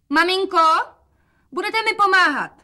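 bright daughter call. A narrator's reading. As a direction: call out to mother, high and loud. Daughter calls to mother. (dcera volá na matku vysokým hlasem)

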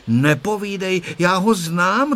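put-on high, decided little girl's tone; firm voice. A narrator's reading. Tereska firmly setting the boys straight. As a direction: settle it with certainty. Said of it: "řekla rozhodným hlasem Tereska".

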